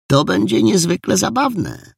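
put-on high-pitched, assured girl's remark; resolute. A narrator's reading. Jola answers the disappointed boys, resolutely. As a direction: say it brightly decided, pitched high. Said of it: "powiedziała rezolutnie Jola".

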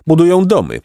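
a touch of grudging awe; reluctant admiration. A narrator's reading. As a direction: marvel despite yourself. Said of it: "rzekł Placek z mimowolnym podziwem".

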